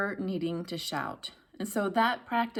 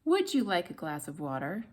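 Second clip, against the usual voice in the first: "Would" started high, then stepping down; lifted opening on "Would". Shown as a demonstration. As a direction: begin "Would" at the top of the range. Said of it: "find a higher pitch at the beginning".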